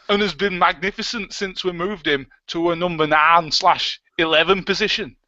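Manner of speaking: badly faked northern English accent; strong northern accent. Host reading football manager's quote, bad northern accent. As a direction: put on a hammy, terrible northern accent. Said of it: "That's supposed to be a northern accent".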